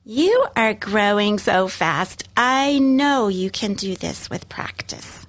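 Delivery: slow, tender, fading to a whisper; gentle encouragement. Shown as a demonstration. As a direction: reassure the child, easing into a whisper.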